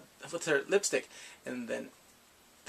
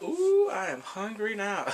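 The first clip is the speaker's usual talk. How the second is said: craving; 5 semitones higher, 4 dB louder, slower than usual. Retold or imitated. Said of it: "I was like".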